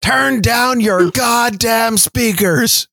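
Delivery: slow, drawn-out mock complaint; hammed-up slow grumble; mock angry demand. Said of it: "one of my favorite Fletcher drops".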